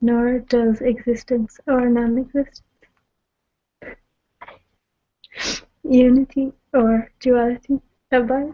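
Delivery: reading aloud while crying, tearful. Reading a passage aloud to another speaker, crying while reading aloud. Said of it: "Sorry, I'm just a big crybaby".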